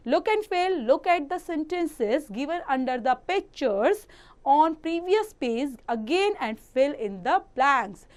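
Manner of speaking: slow, measured classroom reading; textbook read-aloud. Acted. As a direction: read the instruction out slowly for pupils. Reads textbook instruction aloud. (धीमे-धीमे पाठ पढ़कर सुनाना)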